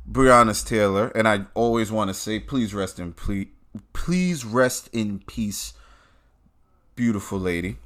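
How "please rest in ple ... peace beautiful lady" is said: softer, slowed condolence; gently lowered, reverent tone; solemn tribute. Real, not acted. Pays respects to the dead.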